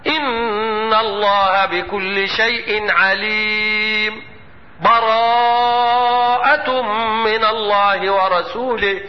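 slow chanted recitation, long held vowels; Quran recitation. Shown as a demonstration. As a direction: chant it slowly joining the verses. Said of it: "إذا اخترت هذا الوجه هكذا".

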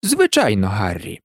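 calm. A narrator's reading. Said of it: "спокійно відповів Дамблдор".

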